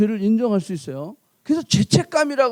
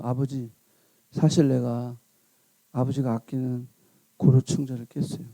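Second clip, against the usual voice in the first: tearful confession; 9 semitones lower, 4 dB quieter than usual. Retold or imitated. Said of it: "막 엉엉 우는 거야".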